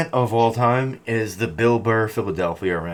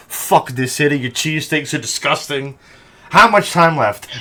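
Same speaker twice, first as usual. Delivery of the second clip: mock rant. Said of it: "He's like".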